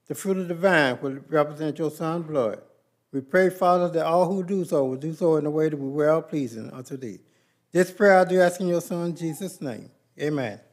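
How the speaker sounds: earnest spoken prayer in a steady cadence; congregational prayer. Acted. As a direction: pray aloud on behalf of the church. Leads the cup prayer.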